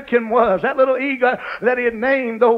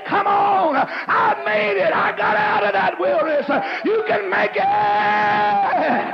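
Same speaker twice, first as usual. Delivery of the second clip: preaching at full force; 2 semitones higher than usual. Acted. Preacher telling the congregation they can make it, shouted preaching.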